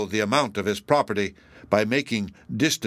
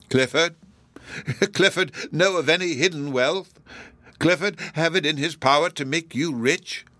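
higher-pitched, rising disbelieving questions; astonished questions tinged with mockery; incredulous ridicule; 6 semitones higher than usual. A narrator's reading. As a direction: scoff at the very idea. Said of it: "affected with a sense of something like ridicule at the idea".

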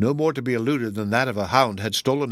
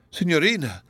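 pleading cry, raised; cried out; 6 semitones higher than usual. Acted. Donatello calling after Miriam, pleading cry. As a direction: call her name in desperate alarm. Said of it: "cried Donatello".

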